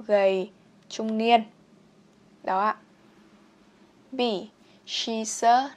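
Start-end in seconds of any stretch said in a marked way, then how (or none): 4.9-5.7 "She's a" run together as one word; linked sounds. Shown as a demonstration. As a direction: carry the S of "She's" onto "a". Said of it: "nối âm luôn". ("She's a" nối âm liền nhau)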